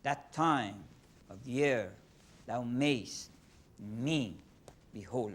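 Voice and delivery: That time of year thou mayst me behold with every second syllable hit hard; exaggerated iambic beat. Shown as a demonstration. Teacher demonstrating iambic pentameter to a student, heavily stressed. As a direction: pound out the iambs, da-DUM da-DUM. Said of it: "I'm just emphasizing to show that".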